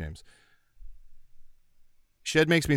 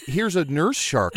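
slow, slightly lifted exhibit introduction; aquarium presenter; 3 semitones higher, slower than usual. Retold or imitated. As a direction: lightly imitate a guide showing off an exhibit. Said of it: "they're like".

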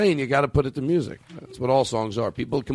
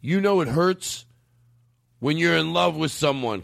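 put-on slow, higher-pitched drunken lament; drunken complaining uncle; 4 semitones higher, slower than usual. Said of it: "just complaining and drunk".

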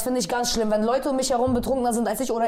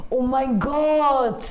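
very slow, drawn-out gasp of shock; much slower than usual. Real, not acted. Friend hearing about the lost tooth, slow shocked exclamation. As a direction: stretch out the horror.

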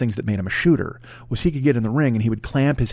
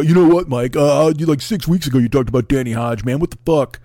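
annoyed fan; 2 semitones higher than usual. Retold or imitated. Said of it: "he's gonna write me and go".

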